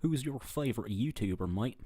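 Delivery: half-successful country accent; not-quite-convincing country accent. Shown as a demonstration. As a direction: read it with a put-on country twang. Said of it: "I'll read it in a country accent".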